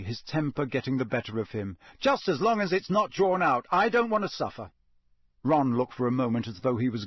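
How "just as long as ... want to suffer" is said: mock the prophecy aloud; a hint of a sulky teen's scorn; bitter sarcasm. A narrator's reading. Harry's sarcastic outburst continues.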